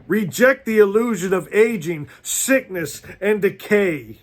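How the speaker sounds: rising, emphatic preacher's repeat; fired-up sermon voice; preaching at full force. Real, not acted. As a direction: drive it home to the congregation.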